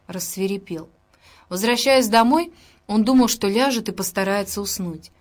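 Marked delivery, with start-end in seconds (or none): none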